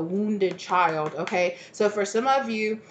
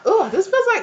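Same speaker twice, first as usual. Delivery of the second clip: disgusted ugh; 13 semitones higher, 8 dB louder than usual. Real, not acted. Reacting with disgust to the card.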